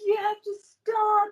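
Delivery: laughing plea. Real, not acted. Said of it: "I'm crying".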